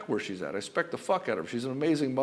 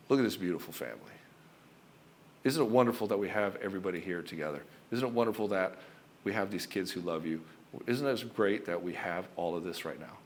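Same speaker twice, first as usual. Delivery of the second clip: low, unhurried, tender retelling; gently steady an overwhelmed partner; calm reassurance; 4 semitones lower, 3 dB quieter than usual. Retold or imitated. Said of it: "I came in there calm".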